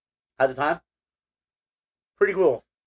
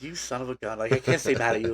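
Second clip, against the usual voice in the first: fond scolding; 5 dB quieter than usual. Retold or imitated. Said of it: "I'm like".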